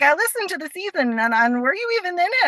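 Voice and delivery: imitating mom. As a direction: lightly voice mom as puzzled. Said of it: "She was like".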